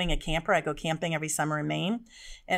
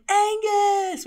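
loud call up the stairs; 14 semitones higher, 7 dB louder than usual. Retold or imitated. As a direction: yell his name up the stairs. Calling son up the stairs.

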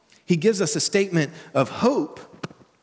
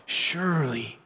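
desperate; 3 semitones lower, 3 dB quieter than usual. Shown as a demonstration. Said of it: "a desperate one".

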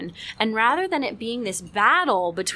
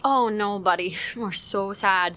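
gentle empathy; slower than usual. Shown as a demonstration. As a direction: soothe a sad little boy. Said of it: "this is where I say".

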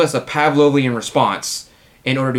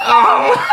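mock dog bark; 9 semitones higher, 6 dB louder than usual. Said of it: "That's the dog barking right there".

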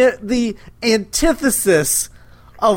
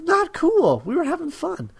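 put-on higher, childish sulky whine; mock sulk; 11 semitones higher than usual. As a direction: whine like a kid called in early. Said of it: "It's like".

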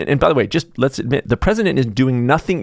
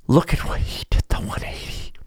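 a shocked hushed whisper after a gasp; mock gasping whisper; 4 semitones higher, 5 dB quieter than usual. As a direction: breathe it out in fake shock. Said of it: "and we go".

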